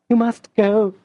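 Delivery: short, high, urgent command; curt. A narrator's reading. Madame urging Julien to leave, curt. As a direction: cut him off, tense. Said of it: "in a curt accent".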